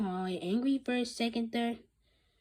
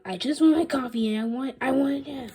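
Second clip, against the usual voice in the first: loud, impatient demand; insist, raising the voice; 6 semitones higher, 10 dB louder than usual. Acted. Principal demanding coffee, loud and impatient.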